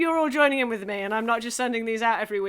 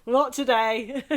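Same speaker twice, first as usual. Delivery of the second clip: laughing. Pretend. Playful refusal, laughing.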